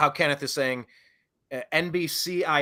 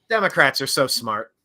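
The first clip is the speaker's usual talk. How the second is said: mock praise, holding back a laugh; straight-faced sarcasm; 3 dB louder than usual. Host mocking the Democrats' discovery, straight-faced and sarcastic. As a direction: say it deadpan, trying not to crack up. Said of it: "really hard to get out without laughing".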